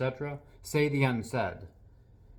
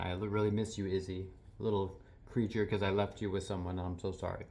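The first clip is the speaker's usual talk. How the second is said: retold tearful apology; 4 semitones lower, 5 dB quieter than usual. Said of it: "Why am I crying about a little tiny Chihuahua?".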